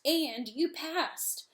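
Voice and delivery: slow, breathless whisper. Acted. Reveal of the secret test.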